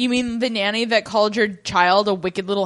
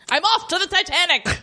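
mock Branson accent; 8 semitones higher than usual. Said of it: "a much more competent Branson".

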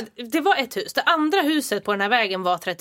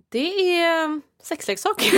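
awkward confession; 4 semitones higher, slower than usual. Retold or imitated. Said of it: "Så jag bara".

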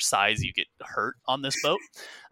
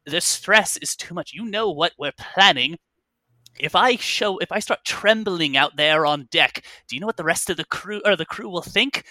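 desperate captain; 4 semitones higher, 4 dB louder than usual. Acted. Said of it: "the first voice comes back and says".

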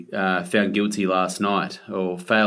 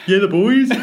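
put-on Queensland accent; 11 semitones higher, 8 dB louder than usual. Hammed North Queensland cheer.

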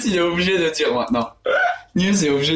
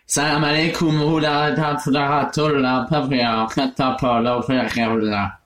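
fake Arabic; 2 semitones lower, slower than usual. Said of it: "fais comme si tu parles en arabe".

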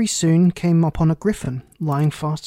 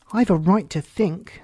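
sharp; 3 semitones higher than usual. Acted. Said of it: "said Alice sharply".

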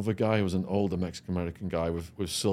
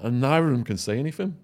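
ordinary talk

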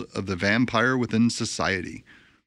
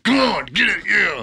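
higher, louder, egging him on; eager Lilith; 8 semitones higher, 4 dB louder than usual. Retold or imitated. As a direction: hype him up, impatient.

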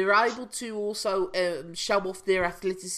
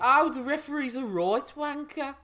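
higher-pitched, hammed-up Black Country accent; 5 semitones higher than usual. Shown as a demonstration. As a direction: deliver it on request in broad Black Country. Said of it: "say the referee's a wanker in that accent".

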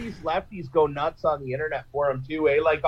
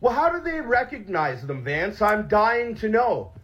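sarcastic; 4 semitones higher than usual. Acted. Sarcastic question to MP.

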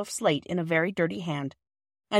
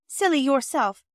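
retorted; 7 semitones higher than usual. A narrator's reading. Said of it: "retorted Phyllis".

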